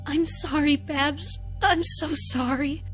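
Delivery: consoling. A narrator's reading. Doctor comforting crying Babs, consoling. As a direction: soothe with a heartfelt apology.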